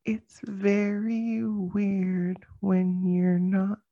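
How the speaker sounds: glitchy robotic internet voice; like a breaking-up call; soft robot voice. Retold or imitated. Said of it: "Like that".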